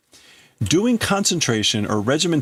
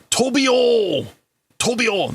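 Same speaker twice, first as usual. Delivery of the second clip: calling out; 12 semitones higher, slower than usual. Acted. Father calling his lost son by name, anguished and high. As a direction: cry out the boy's name across the distance.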